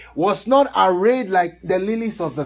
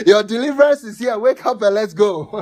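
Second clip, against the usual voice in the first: higher, louder rousing wake-up call, quick; 5 semitones higher, 5 dB louder than usual. Acted. Preacher rousing a sleeping congregation, bold call. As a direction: shake the sleeper awake with joy. Preacher voicing deliverance message.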